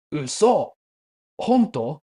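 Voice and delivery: astonished double take, lightly played; acted disbelief. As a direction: quote him caught by surprise. Friend disbelieves the narrator likes natto.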